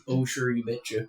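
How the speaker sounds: put-on Minnesotan accent. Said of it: "You never done a Minnesotan".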